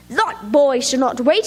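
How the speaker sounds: yelling. Acted. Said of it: "The worm, he was yelling".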